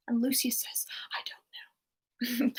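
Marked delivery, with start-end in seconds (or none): 1.1-2.5 slow, soft half-whispered reply; hushed admission. Retold or imitated. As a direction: act it out slowly, barely voiced. Acting Lucius's reply to the reproach.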